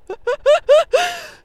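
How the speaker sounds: high, loud mock sobbing; imitated bawling. Birthday person breaking down before friends, mock bawling. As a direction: burst into exaggerated staccato boohoo. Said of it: "我就在那边大哭".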